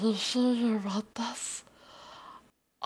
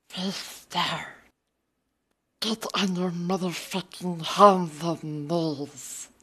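a lightly voiced hissing cave creature, mostly in own voice; mock creature voice, barely changed from own; creepy creature voice. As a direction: play a wheedling cave creature, half-hearted. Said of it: "the accent challenge".

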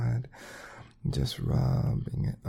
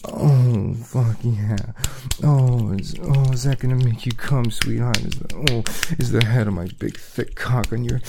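louder, breathless and urgent; aroused; 5 dB louder than usual. Acted. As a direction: push harder, rising arousal.

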